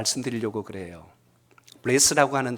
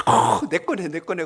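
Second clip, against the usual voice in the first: higher, breaking out in retold relief; delighted; 4 semitones higher, 3 dB louder than usual. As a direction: imitate a woman glad to find what is hers. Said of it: "굉장히 좋아하시는 거예요". (무척 좋아하는 아주머니 흉내)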